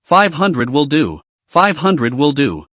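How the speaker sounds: slow, backing-down tone; suddenly meek, conceding slowly; changed tone. Acted. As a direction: slowly give in and take it back. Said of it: "changed his tone and said".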